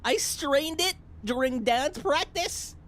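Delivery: high-pitched mock whine; self-pitying inner voice, played up; inner complaint. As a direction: whine it out slightly drawn, pitched well up. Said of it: "But deep inside, I'm like".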